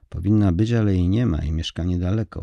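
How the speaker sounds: firm, pressing each word home; quick, insistent reply with weight on powinna; with emphasis. Acted. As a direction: insist that she should be there. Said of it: "odpowiedział Jacek z naciskiem".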